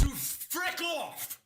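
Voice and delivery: high, slow, startled cry of fright; startled shriek. Real, not acted. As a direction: yelp as if something just jumped out. Startled by a jump scare.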